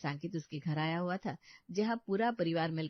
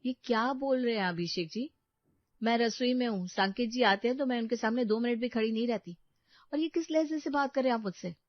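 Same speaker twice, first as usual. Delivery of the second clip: higher, louder, pleading wife; hurt protest; 5 semitones higher, 5 dB louder than usual. Acted. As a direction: push back, hurt and rising. Wife protests husband's accusation.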